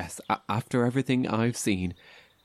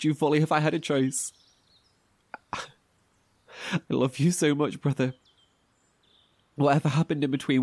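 emotional; 2 semitones higher than usual. Acted. Emotional message to lost brother.

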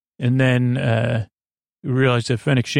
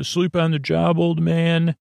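lightly mocking, higher-pitched smooth-guy tease; retold cocky line, pitched up and held level; a hint of a smooth operator, voiced higher; Han Solo; 5 semitones higher than usual. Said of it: "tries to be like Han Solo smooth".

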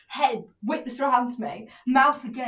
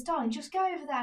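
quiet coaxing; 3 semitones higher, 6 dB quieter than usual. Retold or imitated. Boyfriend coaxing her aside.

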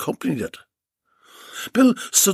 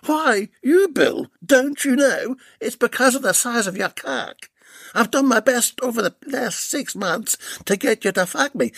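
higher mocking female voice, taunting her captive; Delilah; 5 semitones higher than usual. Delilah taunts bound Bill in a higher mocking voice. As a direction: sneer each Mister Bill, slowing to a menacing close.

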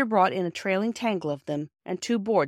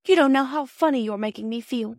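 upset cry; 6 semitones higher, 4 dB louder than usual. A narrator's reading. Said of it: "cried Bobby with a white face".

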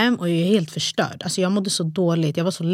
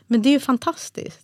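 higher, bright rising delight on fantastiskt; overjoyed husband; 7 semitones higher than usual. Retold or imitated. Husband reacting to triplets news with delight. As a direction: burst out with joy. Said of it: "det var liksom hans reaktion".

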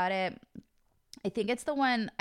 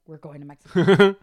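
excited; 3 semitones lower, 11 dB louder than usual. Retold or imitated. Texting Brian excited.

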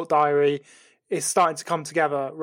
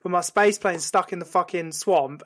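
all angry. Acted. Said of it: "fucking all angry again".

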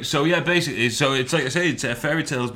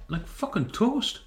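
queasy, groaning voice; feeling sick; 10 semitones higher, 5 dB quieter, slower than usual. Real, not acted. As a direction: say it like you might throw up. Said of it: "I do feel rough as fuck".

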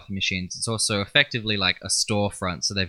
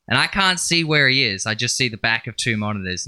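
normal talking voice

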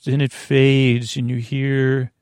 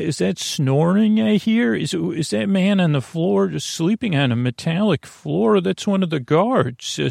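higher, fussy worried voice; Samantha's voice; 4 semitones higher than usual. Acted. Samantha fussing about the drooling guard, higher voice. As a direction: fret over the sleeping guard, pitched up. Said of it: "I'm talking in my non-regular voice".

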